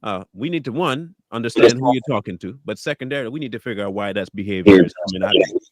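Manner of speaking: lightly voiced parent slowing a child down; firm good parent. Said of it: "a good parent will be like".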